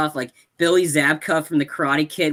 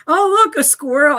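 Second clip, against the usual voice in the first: very high, louder cartoon voice; squirrel voice; 11 semitones higher, 5 dB louder than usual. Squirrel pointing itself out, high cartoon voice. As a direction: chirp it like a silly squirrel. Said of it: "the squirrel is like".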